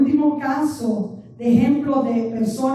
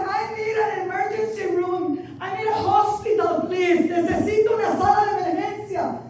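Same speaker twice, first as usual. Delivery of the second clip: tag; 5 semitones higher than usual. Retold or imitated. Revive su súplica de ayuda.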